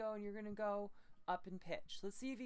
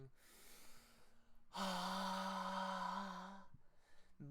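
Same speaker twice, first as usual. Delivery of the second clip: airy sustained ha; breathy ha note. Shown as a demonstration. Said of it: "We're going".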